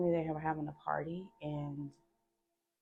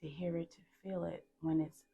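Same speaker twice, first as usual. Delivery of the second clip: softly spoken invocation; spoken prayer; 4 dB quieter than usual. Real, not acted. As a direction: ask Spirit in, softly and with pauses. Prays aloud to Spirit.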